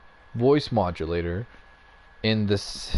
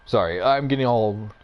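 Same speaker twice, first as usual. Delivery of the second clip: louder, worked-up apology; real agitation, voice raised; fired up; 5 dB louder than usual. Real, not acted. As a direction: apologise while all fired up. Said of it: "fired up about this".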